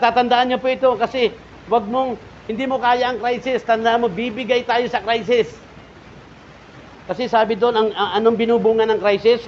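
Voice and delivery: loud, high impassioned sermon; fiery preaching. Acted. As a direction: drive it home to the congregation. Preaching at full force. (maalab na pangangaral)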